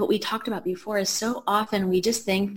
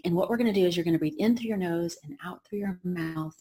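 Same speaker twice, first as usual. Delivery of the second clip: mock guided meditation. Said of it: "he's like".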